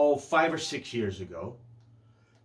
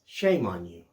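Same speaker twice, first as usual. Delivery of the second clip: a touch of sad reproach, lower pitch; gently disappointed in Dad; sadly; 5 semitones lower, slower than usual. Retold or imitated. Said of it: "looked at me sadly".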